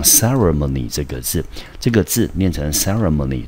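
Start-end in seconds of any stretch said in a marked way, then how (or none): 2.7-3.4 ceremony with the weight on CE; stress on first syllable. Shown as a demonstration. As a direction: hit CE in ceremony. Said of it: "重音节在C的前面". (重音放在ceremony的第一个音节)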